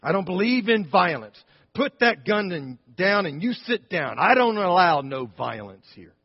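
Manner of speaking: put-on high, loud stern old lady; stern grandmother. Christian grandmother standing up to the gunman, high stern voice. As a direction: scold him firmly like a grandmother. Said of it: "She said".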